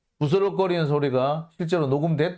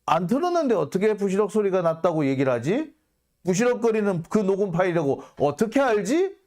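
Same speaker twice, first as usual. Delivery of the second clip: normal talking voice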